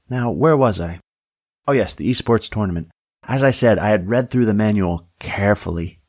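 lightly voiced deputy, resuming a story; chatty deputy character. Deputy resumes her tale to the sheriff, lightly voiced. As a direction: pick up an interrupted anecdote in a light character voice.

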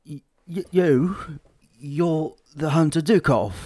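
spluttering surprise. Acted. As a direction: splutter it out in disbelief. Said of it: "He spluttered".

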